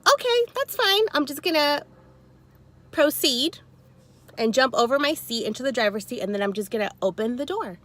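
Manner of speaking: high mock-polite, then settling down; sweetly dismissive, building the plan; sassy. Tells the angry woman her plan, mock-polite. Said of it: "I was like".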